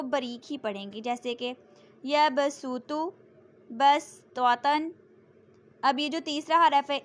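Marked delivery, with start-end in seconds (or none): 2.0-4.9 يبسط recited slowly with a light س; thin seen sound. Shown as a demonstration. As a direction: read the س thin, not heavy. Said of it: "صرف سین پڑھنا ہے".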